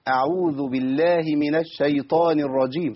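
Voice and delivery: الشيطان with barely any spread on the sh; weak sheen. Shown as a demonstration. Teacher shows the error, weak sheen in الشيطان. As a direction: recite slowly, underplaying the sh in الشيطان. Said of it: "ما عملتش التفشي بتاع الشين".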